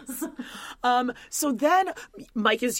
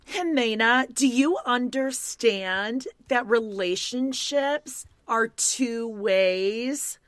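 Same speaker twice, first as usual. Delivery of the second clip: mock Ella; 3 semitones higher, much slower than usual. Ella lecturing Jimena, mock quote.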